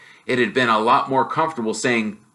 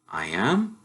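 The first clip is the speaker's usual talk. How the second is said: soft, stunned question; barely taking it in; a quiet, bewildered murmur; dazed; 2 semitones lower, 6 dB quieter than usual. Acted. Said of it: "feeling dazed".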